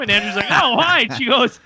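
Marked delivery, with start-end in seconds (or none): 0.5-1.1 high-pitched puzzled "oh, why?"; imitated surprised query; innocent question. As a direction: ask it high, all unsuspecting. Retold innocent question before roast.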